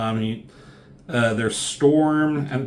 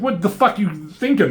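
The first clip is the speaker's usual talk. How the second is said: mock angry yell; 8 semitones higher than usual. Wolverine yells at Magneto.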